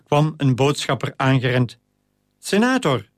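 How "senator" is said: a high call across the baths to get attention. A narrator's reading. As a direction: call out to the senator from a distance. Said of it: "riep hij".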